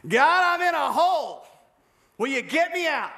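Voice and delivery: a believer begging God to rescue him; whiny mock prayer. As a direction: play the helpless pray-er begging to be rescued.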